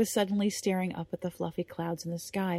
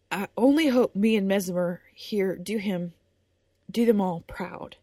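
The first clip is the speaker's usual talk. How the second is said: slightly louder, voice straining with tears; holding back tears; 5 dB louder than usual. Acted. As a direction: push through the tears with pride. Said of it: "Willing the tears to stay".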